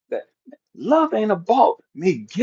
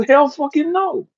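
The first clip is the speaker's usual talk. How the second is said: high, slow, drawn-out no; blunt refusal; 11 semitones higher than usual. Retold or imitated. God flatly refusing a prayer, slow and emphatic. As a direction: stretch out the no emphatically.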